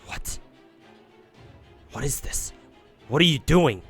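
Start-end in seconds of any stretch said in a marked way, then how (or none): 3.1-3.8 from a stunned murmur to a loud yell. Acted. Bargus confronting the fairies of her town, yelling. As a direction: build from shock to an outraged yell. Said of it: "she yelled at the wicked fairies".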